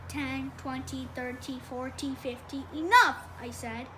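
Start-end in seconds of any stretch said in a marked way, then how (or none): 0.1-2.6 slow, even counting; reciting. A narrator's reading. Small boy showing off his counting, slow recitation. 2.7-3.3 loud, sudden cut-off; fed up. A narrator's reading. Older brother stopping the boy's counting, fed up.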